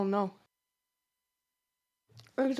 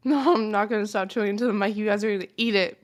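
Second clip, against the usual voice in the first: loud taunting; 6 dB louder, faster than usual. Real, not acted. Taunting about chewing into mic.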